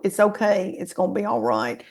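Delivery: soft, gentle reassurance to her younger self; soothing. Retold or imitated. Telling her teenage self it's okay, soft and tender. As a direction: comfort a frightened girl, quietly. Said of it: "think about that little ... girl and go".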